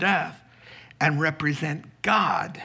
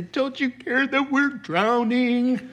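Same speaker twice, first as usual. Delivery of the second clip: high, panicky cry over the storm; panicked disciples; 9 semitones higher than usual. Acted. Disciples waking Jesus in the storm, high panicked plea. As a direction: yelp it like men sure they're sinking.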